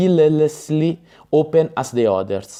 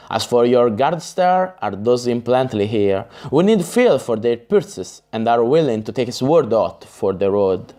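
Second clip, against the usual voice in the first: usual speaking voice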